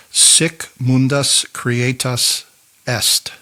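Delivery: slow, careful Latin accent, each syllable laid out. Shown as a demonstration. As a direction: read "Sic mundus creatus est" slowly in a Latin accent, leaning on "mundus". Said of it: "That was my best Latin accent".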